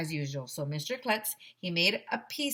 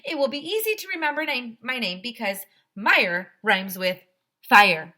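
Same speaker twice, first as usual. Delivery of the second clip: much higher, louder lady's voice; firefighter lady; 5 semitones higher, 9 dB louder than usual. Acted. Firefighter thanking the applauding children, high and cheerful. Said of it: "said Missus Meyer".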